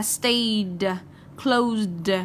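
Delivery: "stayed, closed" each ending in a released, voiced d. Shown as a demonstration. Teacher showing the third rule, -ed said as d in "stayed, closed". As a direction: sound out the final d in "stayed, closed". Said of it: "chúng ta đọc nó là d".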